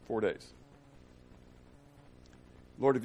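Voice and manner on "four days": soft, lower echo; quiet lower restatement; hushed repeat. Acted. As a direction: let it drop to a hush.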